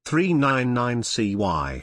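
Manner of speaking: flat robot voice reading. Pretend. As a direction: read the code like a robot. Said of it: "And then robot voice".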